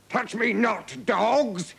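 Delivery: scowling count. A narrator's reading. Count defying the king's bodyguards, haughtily angry. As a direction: warn them off with contempt. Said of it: "The count scowled at the king".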